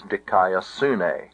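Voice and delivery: "dikaiosune" with SU stressed, falling away after. Shown as a demonstration. Teacher corrects to where the accent is, "dikaiosune" stressed on SU. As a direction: put the accent on su in "dikaiosune", not ne. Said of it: "but it is not".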